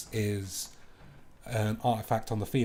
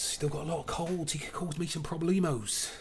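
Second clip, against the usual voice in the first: silly high voice; 6 semitones higher than usual. Pretend. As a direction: say it again in a goofy high voice.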